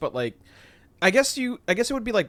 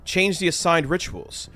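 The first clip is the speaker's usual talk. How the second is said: lightly voiced dutiful officer reporting trouble; a touch of formal servant reporting, slowing toward the end; Voxmaster voice; 3 semitones higher than usual. Voxmaster warns the Captain about restless servitors, lightly voiced formal report. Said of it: "I'll do the Voxmaster".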